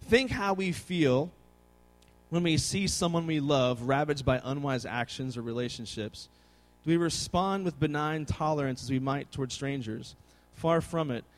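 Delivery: reading a quotation. Real, not acted. Preacher reads a statement on anger and love to listeners, measured. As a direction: read the statement out evenly, letting it settle down.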